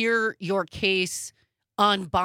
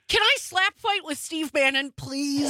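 excited plea; 6 semitones higher than usual. Real, not acted. Host eagerly begs to fight Bannon, excited. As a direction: gasp then a high eager ask.

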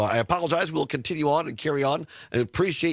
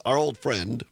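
sarcastic; 2 semitones lower than usual. Real, not acted. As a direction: say it with heavy irony. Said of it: "as I say that sarcastically".

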